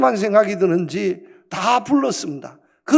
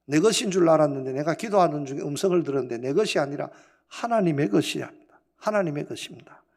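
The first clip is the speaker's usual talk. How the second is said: humble confession; 4 semitones lower, 5 dB quieter than usual. Retold or imitated. Missionary confesses to the villagers.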